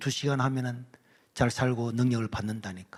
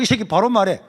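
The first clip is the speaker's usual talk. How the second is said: much louder, higher scolding; angry teacher; 6 semitones higher, 9 dB louder than usual. Retold or imitated. Teacher berating the crying student, angry shout. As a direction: shout it, fed up.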